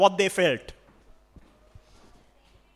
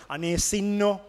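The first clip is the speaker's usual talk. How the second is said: Sinhala "Ane, sinno" with a sighing pity tone; Sri Lankan pity phrase; slower than usual. Shown as a demonstration. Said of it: "This is how we talk sometimes".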